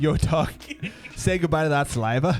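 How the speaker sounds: mock street shout. Joining the walnut bread mockery.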